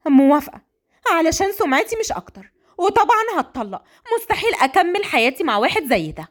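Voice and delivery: put-on defiant young bride; defiant daughter.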